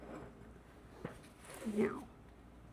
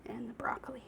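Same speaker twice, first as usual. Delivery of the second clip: whispering; 13 dB quieter, faster than usual. Real, not acted. Whispering aside while cooking.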